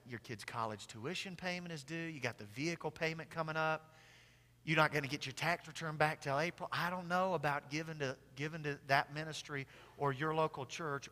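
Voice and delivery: soft, low-key sigh of worry from the tempter; discouraging enemy voice. Acted. Preacher voicing the enemy's doubts about giving, soft and discouraging. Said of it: "our adversary, the enemy, says".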